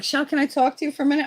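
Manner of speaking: put-on boyfriend's mother. Retold mother calling her over.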